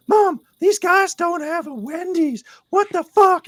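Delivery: very high, loud, slow mock outrage; hammed-up high-pitched incredulity; outraged excitable stranger. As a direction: squeal to mom in scandalised disbelief. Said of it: "I'll do voices as well".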